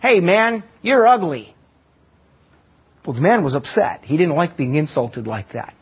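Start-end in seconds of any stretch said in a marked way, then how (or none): 0.0-1.5 parrot screech. Retold or imitated. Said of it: "the parrot screeched out".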